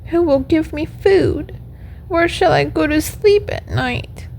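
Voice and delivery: high, plaintive little puppet voice; acted tearful pleading, pitched well up; weeping puppet lament. A narrator's reading. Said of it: "as he wept".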